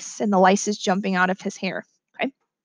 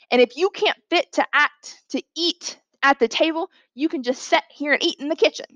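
lightly voiced Southern housekeeper telling off a child; scolding housekeeper; 2 semitones higher than usual. Housekeeper scolds a child for disgracing company, lightly voiced scolding.

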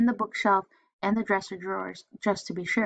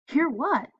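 mother voice; 6 semitones higher than usual. Acted. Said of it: "said his mother".

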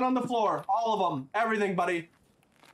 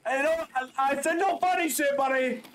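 raised-pitch scolding order; commanding yell; 4 semitones higher than usual. Pretend. Officer telling suspect to follow, raised commanding voice. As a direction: call out sternly to a suspect.

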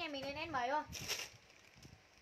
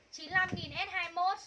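slow drawn-out price call; 3 semitones higher, 3 dB louder, slower than usual. Acted. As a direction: stretch each word of the price out slowly. (rao chậm, kéo dài từng chữ)

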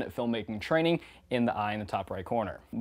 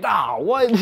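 higher, louder puzzled what; surprised; 9 semitones higher, 6 dB louder than usual. Retold or imitated. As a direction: caught off guard by the note. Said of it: "P K and I were like".

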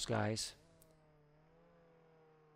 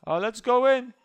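excited; 9 semitones higher, 10 dB louder than usual. Real, not acted. Excited entering bank.

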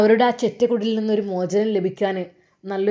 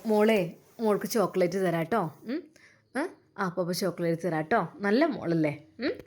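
tender coaxing uncle; 4 semitones lower, 5 dB quieter than usual. Acted. Navas coaxes the little girl.

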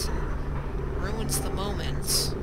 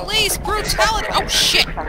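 being chased; 10 semitones higher, 9 dB louder than usual. Real, not acted. Fleeing Combine police under fire.

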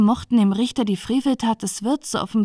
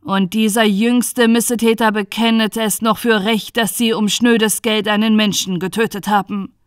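louder, outraged pronouncement; moderately raised judge's voice; indignant exclamation; 4 dB louder than usual. Acted. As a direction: declaim the crime with indignation. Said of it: "rief er aus".

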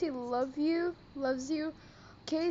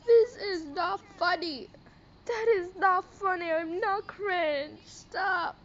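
tearful, whiny protest; about to cry. Real, not acted. Vlogger begging haters to stop, close to crying. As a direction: plead through coming tears. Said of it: "I'm gonna cry right now".

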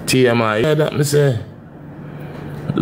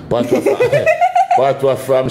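laughing Patwa fam; 3 semitones higher than usual. Real, not acted. Boyfriend teasing girlfriend's Patois, laughing.

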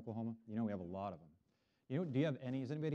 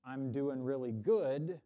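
slow demo; 3 semitones higher, 6 dB louder, much slower than usual. Shown as a demonstration. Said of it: "to say".

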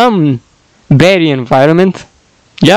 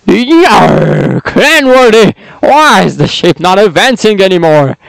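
pirate voice. Acted. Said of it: "Pirate voice".

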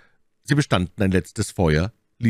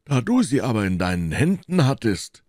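high-pitched exclaiming; Porthos; 6 semitones higher than usual. A narrator's reading. Porthos reproaches his friend about milady, calling out. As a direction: call it out, swinging high. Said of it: "rief Porthos".

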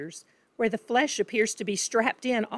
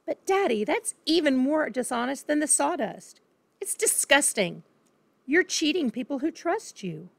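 put-on indignant girl; 6 semitones higher than usual. Daughter scolds cheating father.

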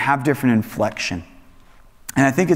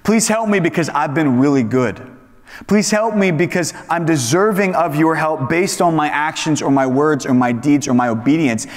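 entitled demand; 4 semitones higher than usual. Retold or imitated. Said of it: "not saying".

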